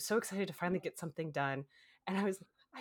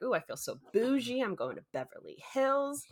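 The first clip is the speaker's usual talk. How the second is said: mock bougie; 6 semitones higher than usual. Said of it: "So I'm driving and I'm just like".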